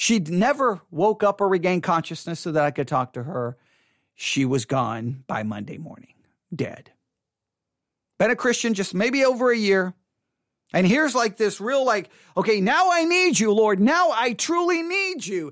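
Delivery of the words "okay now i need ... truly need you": mock desperate, high-pitched, begging plea. Retelling a past prayer to the Lord while his mother was dying: retelling own pleading prayer. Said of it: "And I plead, I pleaded, and I begged".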